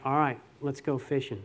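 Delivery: low, soft, resigned agreement; mildly grudging consent; begrudging. Retold or imitated. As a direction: give in reluctantly, without any push. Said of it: "He begrudgingly said it".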